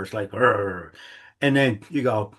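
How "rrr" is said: mock growl of irritation; imitated angry growl. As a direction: growl out the gut reaction. Body reacting to barking dog.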